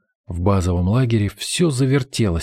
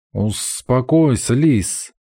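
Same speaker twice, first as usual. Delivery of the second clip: gurgling voice; 3 semitones higher, much slower than usual. Acted. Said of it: "недовольно пробулькал".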